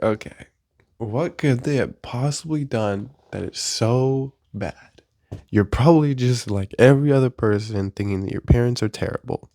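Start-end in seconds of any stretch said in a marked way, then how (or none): 0.0-5.0 a slow, quieter doubting voice; skeptical listener. Retold or imitated. Imagined listener doubting the comedian, slow and quieter. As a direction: play a doubter who asks what's so bad, slowly. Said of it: "You can be like".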